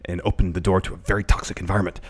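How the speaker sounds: lightly voiced wrestler impression; measured mock reading, softening to the end; Kenny Omega. Host reading the second tweet, lightly in character. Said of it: "You do the, the best Kenny Omega".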